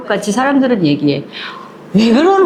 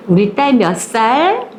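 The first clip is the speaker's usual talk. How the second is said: tender mother; slower than usual. Retold or imitated. Mother changing her daughter's clothes, tender and slow. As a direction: ask it gently, like soothing a little girl. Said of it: "옷을 갈아입히면서".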